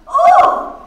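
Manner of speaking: high, loud shrieked "Oh"; sudden high-pitched cry. A narrator's reading. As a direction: let out a piercing shriek. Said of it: "shrieked Miss Kennedy".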